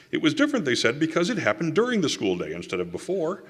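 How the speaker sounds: high-pitched mock argument; mocking retelling. Lecturer retelling a school's feeble legal argument to an audience, mockingly. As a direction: relay their excuse with amused disbelief, pitch jumping up.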